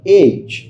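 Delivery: "एज" ending in a j sound; correct pronunciation. Shown as a demonstration. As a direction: model "एज" clearly as one word. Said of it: "बिल्कुल सही pronounce किया".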